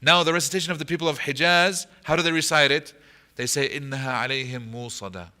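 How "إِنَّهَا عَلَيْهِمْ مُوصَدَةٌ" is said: مُوصَدَةٌ read smoothly with a long u and no catch; مُوصَدَةٌ flowing with no glottal stop; without the hamza. Shown as a demonstration. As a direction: Hijazi recitation, no hamza stop. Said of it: "There's no hamza".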